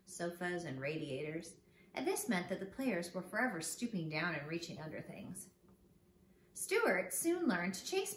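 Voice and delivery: gentle storybook narration; reading to children. A narrator's reading. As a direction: read it like a bedtime story for kids.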